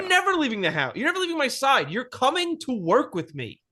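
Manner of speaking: a lightly voiced mom grounding her kid; mock strict mom.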